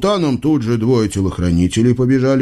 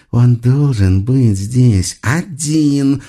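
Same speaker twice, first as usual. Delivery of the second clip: slow menacing witch growl; much slower than usual. A narrator's reading. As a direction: drag it out, threatening. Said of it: "зарычала ведьма". (медленное угрожающее рычание ведьмы)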